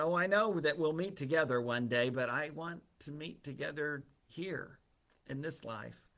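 understated pleading, softening toward the end; mild plea. Acted. Martha to Jesus about her brother, mildly pleading. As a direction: plead gently, letting the last words drop. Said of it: "her plea as she makes that statement".

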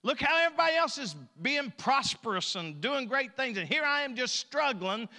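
high, loud hammed-up complaint; whining to God. Preacher plays a believer griping to the Lord, whining to God. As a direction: build a mock tirade of self-pity. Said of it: "Lord, I can't quit whining".

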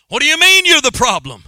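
high, loud disbelieving question; preacher acting outraged sailors; incredulous crew. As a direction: shout it back in disbelief. Crew answers Jonah in disbelief.

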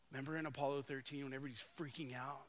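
hushed, fast whisper; whispering the tense scene into being. Acted. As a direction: breathe it out like a secret, quickly. Setting tense mission control scene.

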